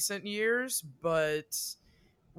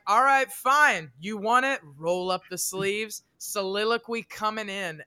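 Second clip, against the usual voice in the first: dramatic soliloquy launch; 3 semitones higher, 5 dB louder than usual. Retold or imitated. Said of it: "I can give a kick-ass soliloquy".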